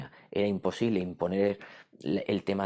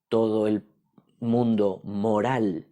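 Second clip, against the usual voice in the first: louder, very slow stress on mundo moral; drawn-out emphasis; 6 dB louder, much slower than usual. Acted. Teacher to class, stressing the whole moral world slowly. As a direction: stretch out todo el mundo moral.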